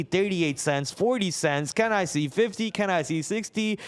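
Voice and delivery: playful auctioneer calling out bids. Pretend. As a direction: call the numbers like an auction. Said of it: "sounds like an auctioneer now".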